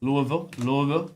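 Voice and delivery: Louisville tried with a squashed middle, LOO-uh-vil, LOO-vil; trying out pronunciations. Shown as a demonstration. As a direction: test out Louisville in slurred local forms. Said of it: "How am I supposed to say it".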